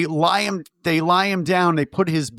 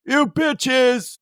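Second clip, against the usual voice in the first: mock yell; 9 semitones higher than usual. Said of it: "you hear him going".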